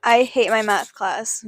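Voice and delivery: very slow drawled demo of the affected voice; showing friends the slow, affected drawl; mock fry talk. Shown as a demonstration. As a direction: stretch it out slowly like the TikTok lady. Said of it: "we're gonna show you what I mean".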